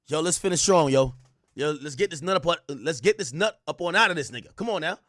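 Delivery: lightly voiced coach pep talk; rally the team with a bit of extra push; a hint of a hyped-up coach; football coach. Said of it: "It's like a football coach".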